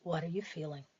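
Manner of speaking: soft, reassuring self-talk; soothing inner voice. Acted. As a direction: comfort them quietly, like an inner guide. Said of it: "you can hear the voice in your mind saying".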